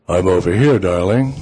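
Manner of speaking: mock-seductive, slightly deepened voice; deepest bedroom voice. Man answering the unseen caller, mock bedroom voice. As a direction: put on a mild bedroom voice. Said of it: "in my deepest bedroom voice".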